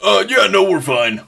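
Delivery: flustered guard. Acted. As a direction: bolt out of the room embarrassed. Flustered guards answering Jane.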